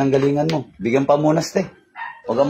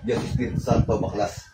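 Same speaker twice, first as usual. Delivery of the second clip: soft, lowered invocation; closing prayer; 4 semitones lower, 8 dB quieter than usual. Real, not acted. Healer invoking the Holy Spirit over patient, hushed prayer. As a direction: bring the incantation down to a quiet close. Closes the healing incantation.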